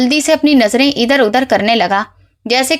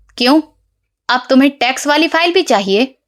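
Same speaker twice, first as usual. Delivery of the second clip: slightly harsh, hardened, stern, firm voice. Reading a story, mother questions her son: slightly stern voice. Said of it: "अपनी आवाज़ थोड़ी कड़क करके कहा".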